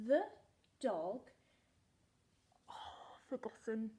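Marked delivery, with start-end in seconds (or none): 2.7-3.9 slow unvoiced whisper; a slow whispered oops. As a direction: whisper it to yourself. Whispered aside.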